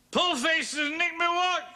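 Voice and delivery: high, drawn-out taunting yell; threatened public scene, yelled high. Acted. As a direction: holler it slowly for everyone to hear. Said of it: "me yelling at the top of my voice".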